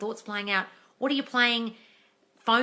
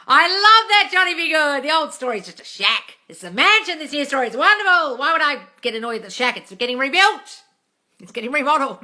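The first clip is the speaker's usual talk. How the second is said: delighted reading; 6 semitones higher, 12 dB louder than usual. Real, not acted. Delighted, reading comment enthusiastically.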